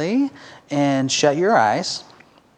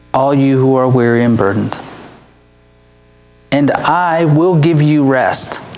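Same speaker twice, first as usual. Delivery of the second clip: scripture reading; 2 semitones lower, 4 dB louder than usual. Acted. Third scripture reading aloud.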